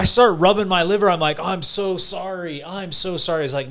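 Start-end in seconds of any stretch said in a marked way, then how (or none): 1.4-3.4 higher, drawn-out mock apology; imitated pleading apology. Drinker apologizing to his own liver, mock pleading. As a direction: beg forgiveness, lightly acted.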